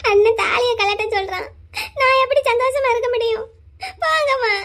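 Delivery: crying, voice rising high in protest; tearful protest. Acted. Sister protests to her mother through tears, crying high. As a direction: sob out the complaint to mother.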